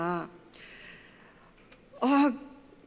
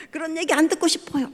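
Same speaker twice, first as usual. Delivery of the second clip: higher, a touch of irritated protest; imitating angry daughter; 6 semitones higher than usual. Daughter rejects father's comfort, mock angry. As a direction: snap back at dad, mildly played. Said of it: "화를 내는 거예요".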